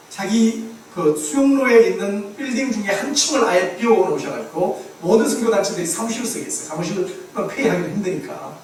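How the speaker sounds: ordinary talk, nothing marked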